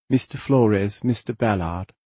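put-on crisp Australian accent. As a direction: clip the words, Aussie style. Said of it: "in her clipped Australian accent".

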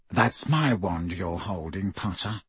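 slow low sneer; a cold, drawled threat; Malfoy voice. A narrator's reading. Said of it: "said Malfoy".

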